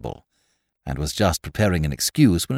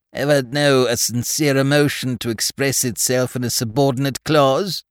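impressively; 5 semitones higher than usual. Acted. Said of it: "saying impressively".

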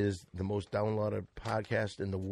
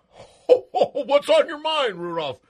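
Santa voice; 13 semitones higher, 9 dB louder than usual. Acted. Santa voice to Rudolph.

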